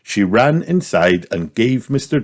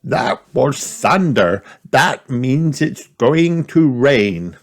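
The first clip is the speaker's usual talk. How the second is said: grandpa voice; 7 semitones higher than usual. A narrator's reading. Grandpa urging hurry.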